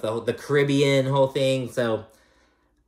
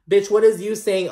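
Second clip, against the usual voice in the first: higher, louder outburst of disbelief; incredulous rant; 9 semitones higher, 6 dB louder than usual. Real, not acted. Viewer ranting at Larsa in loud disbelief. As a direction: blurt it out in disbelief.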